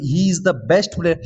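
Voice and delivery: slow, careful read with "the" set apart; "he is the best player" read word by word; slow demo. Shown as a demonstration. Teacher reading the model sentence slowly to students. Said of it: "तो उसमें the आता है हमेशा".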